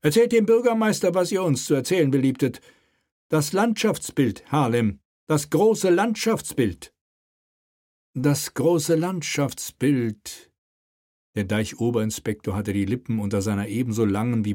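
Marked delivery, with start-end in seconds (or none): 0.0-6.9 raised, slowing royal command; commanding king. Acted. King commands Harlem before the mayor, raised. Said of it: "donnerte der König". 8.1-10.5 very slow, drawn-out repetition; slow echo. Acted. Dutch inspector repeats the king's phrase, very slow. Harlem echoes the king slowly.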